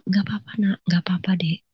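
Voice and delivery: hushed, soft reassurance; calm soothing. Retold or imitated. Calm sister comforting crying sibling, soft soothing. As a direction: comfort a crying child under your breath.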